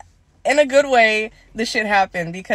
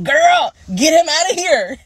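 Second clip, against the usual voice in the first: higher, louder, urgent rush; urgent plea; 8 semitones higher, 4 dB louder than usual. Retold or imitated. To the nurse once the boyfriend leaves: urgent, higher call.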